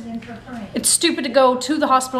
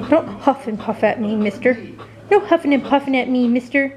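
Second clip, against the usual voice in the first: mock-stern talk to the dog; playful pet scolding. Real, not acted. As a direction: tease the pet like a fake-strict owner. Mom scolding pet sitting beside her.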